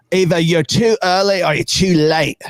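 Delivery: big gruff greeting, pushed up high; deep-voiced figure. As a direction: call it out as the hulking hooded figure. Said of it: "very deep voice".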